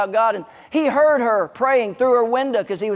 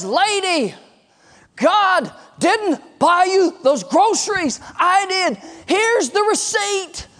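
high, slow, word-by-word correction; emphatic confrontation; 9 semitones higher, much slower than usual. Acted. Atheist neighbor shows the widow the receipt, emphatic. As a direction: set her straight, stretching each word out high.

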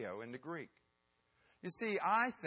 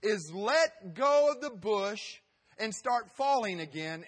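voice of God; 6 semitones higher, 6 dB louder than usual. Acted. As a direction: announce it grandly from the heavens. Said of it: "He says".

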